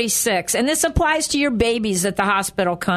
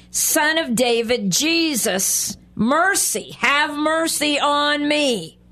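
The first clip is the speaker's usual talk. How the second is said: slow, drawn-out plea rising higher on mercy; mock crying out; 4 semitones higher, slower than usual. Blind beggar calls to Jesus passing by, crying out. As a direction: call out for mercy, drawing it out. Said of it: "he began to cry out".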